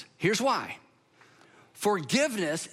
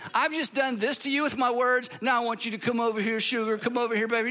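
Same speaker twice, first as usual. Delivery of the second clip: mock needy plea; 3 semitones higher, faster than usual. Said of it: "that's a request for proximity".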